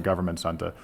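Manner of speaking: Boston accent, r dropped at the end of Center; slipping into a Boston accent on Government Center. Real, not acted. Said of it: "Sorry, my Boston accent came out".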